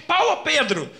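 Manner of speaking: high, loud repeated name; repeated shout. Retold or imitated. Medium repeating the name in a high loud shout. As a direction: keep calling the name, insistent.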